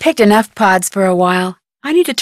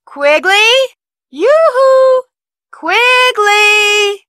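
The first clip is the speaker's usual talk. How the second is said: calling out; 12 semitones higher, much slower than usual. Real, not acted. Calling out to Quigley, a high sing-song yoo-hoo. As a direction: call out across the room.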